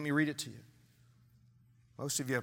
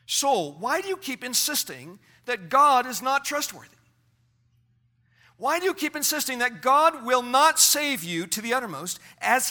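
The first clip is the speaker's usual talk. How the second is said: sermon to oneself; 6 semitones higher than usual. Acted. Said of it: "Now you continue your sermon".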